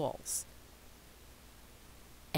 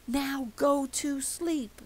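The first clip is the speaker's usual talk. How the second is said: stern order; 10 semitones higher, slower than usual. Acted. Everyone orders the child.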